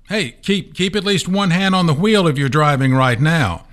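high, joking warning; mock warning. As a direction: pretend to catch a listener driving. Joking warning to driving listeners.

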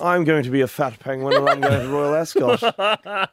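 laughing, posh-ish British accent attempt. Shown as a demonstration. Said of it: "With a British accent then, please".

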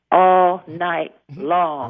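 slow, drawn-out innuendo; suggestive drawl. Pretend. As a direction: stretch each word out suggestively. Advice comic, drawn out sexily.

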